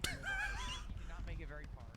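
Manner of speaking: a very high, slow put-on squeak; squeaky put-on voice. Joking over a wrecked car in a high squeaky voice.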